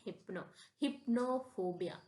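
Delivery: हिप्नो and हिप्नोफोबिया starting with short-i HIP; correct pronunciation. Shown as a demonstration. Teacher modelling the word for students, हिप्नोफोबिया with a short i. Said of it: "इसको हम क्या पढ़ते हैं?".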